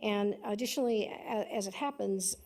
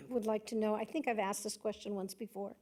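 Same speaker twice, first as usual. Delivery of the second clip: hoarse, fading voice with throat clearing; a strained, raspy voice that keeps catching; losing her voice; 4 dB quieter than usual. Real, not acted. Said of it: "I'm losing my voice this morning".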